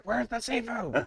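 put-on high, slow drunken whine; drunk angry customer. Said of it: "drunk, angry customer... be like".

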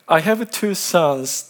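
normal talking voice

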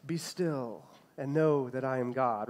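slow, soft, mellow reading; chill and mellow. Shown as a demonstration. Pastor showing how people usually read the psalm, chill and mellow. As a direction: lay it back gently, like it's no big deal. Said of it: "real chill and mellow".

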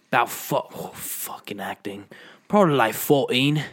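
British tough guy; mock Cockney film star; Jason Statham. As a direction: answer in a put-on London accent. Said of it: "Well, as Jason Statham".

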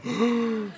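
exaggerated scandalized gasp; demonstrated shocked gasp. Shown as a demonstration. Pastor leading everyone in a gasp, mock shock. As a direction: suck in air in mock horror. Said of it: "everyone go".

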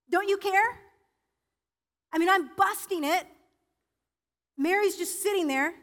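a touch of Martha's exasperated plea to the Lord; Martha pleading. Acted. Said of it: "And Martha goes".

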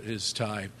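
normal talking voice

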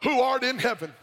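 measured recital of a familiar prayer; prayer recitation. Acted. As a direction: recite it phrase by phrase, pausing between petitions.

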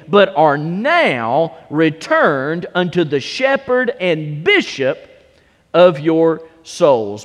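a solemn scripture reading to the congregation. Acted. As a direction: read the verses with weight, unhurried. Reads Scripture aloud, King James.

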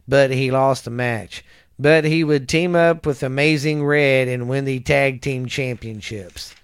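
projected, deliberate read-out voice; reading aloud. Real, not acted. Reading a wrestler's career history to a listener, reading aloud. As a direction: read it out like a biography report.

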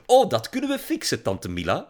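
high, loud, bubbly sales pitch; lightly voiced girl pitching haircare; eager girl. A narrator's reading. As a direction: sell it brightly like a girl influencer. Girl pitching product to aunt.

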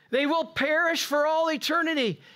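ordinary delivery

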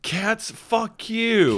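very high, slow mock rage at cats; imitating a driver who hates cats; mock cat hater. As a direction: drag it out as a fake furious driver.

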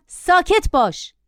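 high, drawn-out stern order; commanding. A narrator's reading. Passenger stopping the boy before he screams, commanding. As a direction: cut the child off with authority. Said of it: "با تحکم گفتم".

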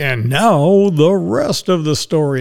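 slow, deliberate radio-host sign-off; lightly imitating a classic radio storyteller's pause-heavy delivery; Paul Harvey. Host quoting the radio man who coined his segment name, a slow mock broadcaster line. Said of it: "Paul Harvey used to say".

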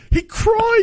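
mocking shout. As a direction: jeer at him like a playground bully. Mocking a crying coach.

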